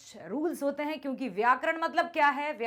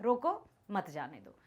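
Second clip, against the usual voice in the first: रोको, slight break, then a lower मत जाने दो; pause after रोको; 5 semitones lower than usual. Shown as a demonstration. Teacher explaining the comma while reading, pause after रोको. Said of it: "थोड़ा सा रुकते हैं ना".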